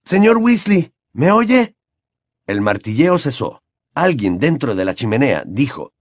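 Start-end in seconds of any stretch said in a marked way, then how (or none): 0.0-1.8 high, raised calling voice; mild high-pitched shout; shouting through boards. A narrator's reading. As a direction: call out to be heard through a barrier. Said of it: "gritó a través de las tablas".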